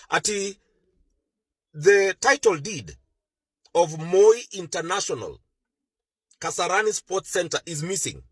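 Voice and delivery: put-on slow, measured, as if to a child; slow deliberate re-explanation. Shown as a demonstration. Explaining to the confused listener, slow and deliberate. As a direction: spell it out slowly, word by word. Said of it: "ebu just explain to us".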